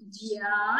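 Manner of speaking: "జ్యా" with a drawn-out aa; "జ్యా" stretched as jyaa; long vowel. Shown as a demonstration. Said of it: "అని దీర్ఘంగా పలుకుతాం".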